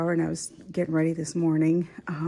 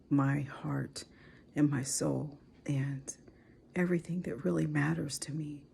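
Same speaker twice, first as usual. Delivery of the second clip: teary; 4 dB quieter than usual. Real, not acted. Wife praising her husband to viewers, teary and hushed. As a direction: barely hold it together. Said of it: "So I've already cried".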